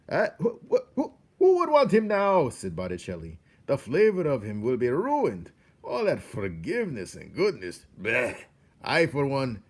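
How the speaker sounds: high loud sneering rat voice with a laugh; disgusted rat. A narrator's reading. Botticelli sneers that the mouse is ruined. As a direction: scoff in disgust.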